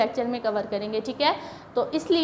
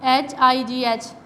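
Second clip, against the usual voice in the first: slow spelling; slower than usual. Shown as a demonstration. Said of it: "जैसे".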